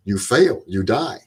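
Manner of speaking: matter-of-fact doom in imitated German accent; mock-stern German refrain. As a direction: deliver the verdict as a German instructor. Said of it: "in his German accent".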